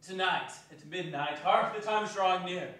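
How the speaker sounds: a hint of a grave old spirit; solemn ghost. Ghost solemnly foretells its end.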